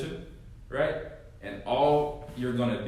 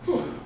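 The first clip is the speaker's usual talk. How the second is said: breathless whew; 14 semitones higher than usual. Real, not acted. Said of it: "I'm out of breath right now".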